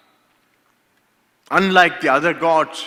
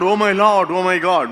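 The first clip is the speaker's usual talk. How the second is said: higher, louder startled exclamation; mock surprise; 4 semitones higher, 5 dB louder than usual. Shown as a demonstration. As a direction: blurt it like someone just walked in. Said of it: "It is not a statement of surprise".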